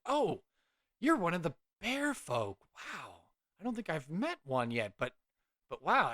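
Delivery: high gasp of recognition, dropping to hushed wonder; awestruck young scholar. Acted. Young cleric meets her first bear folk, awestruck. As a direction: marvel at meeting someone rare.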